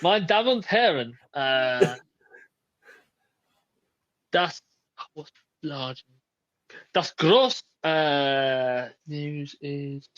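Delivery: halting mock German announcer; fumbling a German-accented announcement; hammed-up German accent, losing the words. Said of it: "you have to do it in German or a German accent".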